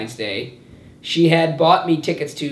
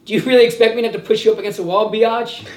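Prison Mike impression; 4 semitones higher, 3 dB louder than usual. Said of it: "Prison Mike".

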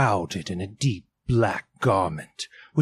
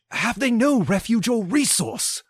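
much higher pleading cry; Scrooge cries; 12 semitones higher than usual. Acted. Scrooge pleads with the spirit, high anxious cry. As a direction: beg for some hope. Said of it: "cried Scrooge".

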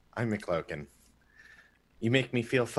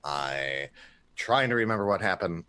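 Ferris voice; 6 semitones lower than usual. Shown as a demonstration. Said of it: "he sounds like this".

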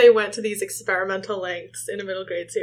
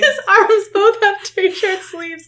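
slow disbelief; 11 semitones higher, 3 dB louder, much slower than usual. Real, not acted. Disbelieving repeat, drawn out.

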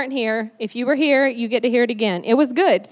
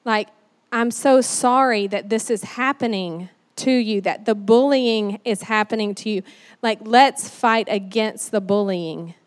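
sympathetic parent; 2 semitones lower than usual. Retold or imitated. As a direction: take the child's side against the trouble. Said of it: "get on their side".

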